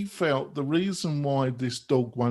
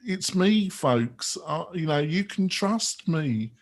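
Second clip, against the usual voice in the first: lightly voiced smug leader, a little louder; mocking the leader; 2 semitones higher, 4 dB louder than usual. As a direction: play the self-assured boss, tongue in cheek. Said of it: "he seems to be saying".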